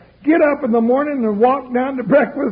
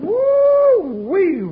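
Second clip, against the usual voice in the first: excited whoop; 8 semitones higher than usual. Acted. Exclaims after a big punch.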